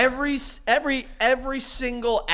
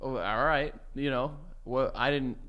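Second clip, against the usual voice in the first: low, mumbled tipsy husband; quiet drunk denial; 6 semitones lower, 11 dB quieter than usual. Acted. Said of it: "You just sound, like, a little drunk".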